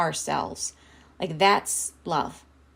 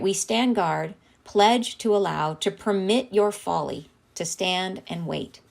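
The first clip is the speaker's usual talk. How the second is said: solemn reading; slower than usual. Acted. Rereads channeled message.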